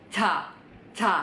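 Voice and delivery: "ca" between cha and ja; C-J blend. Shown as a demonstration. Teacher giving the right Korean sound, blended C-J. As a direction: soften "ca" halfway towards J. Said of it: "dengungan suara yang kalian keluarin".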